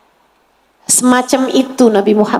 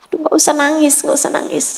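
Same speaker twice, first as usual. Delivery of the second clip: soothing; 2 semitones higher, 4 dB quieter, much faster than usual. Acted. Prophet comforts the girl.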